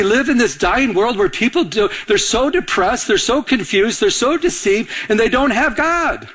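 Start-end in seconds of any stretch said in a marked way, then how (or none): 2.1-6.3 preaching build. Acted. Building sermon list.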